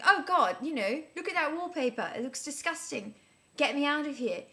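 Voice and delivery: high, loud panicked disgust; freaking out. Retold or imitated. Waking in a stranger's bed, freaking out. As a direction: blurt it out in a rising fluster. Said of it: "I was sort of freaking out".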